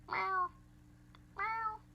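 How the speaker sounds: tiny, very high meow; high-pitched meow. Shown as a demonstration. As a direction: squeak out a short meow. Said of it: "I can do a high-pitched meow".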